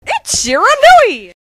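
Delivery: high, bright hype call; excited announce. Acted. Narrator introducing the wolf, excited. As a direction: announce the hero with glee.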